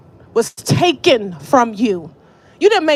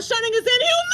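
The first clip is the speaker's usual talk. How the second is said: mean it; 10 semitones higher, 4 dB quieter than usual. Shown as a demonstration. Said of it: "say it like you mean it".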